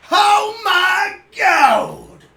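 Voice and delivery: demonic voice. Acted. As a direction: bellow it like a demon. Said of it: "It was a very demonic voice".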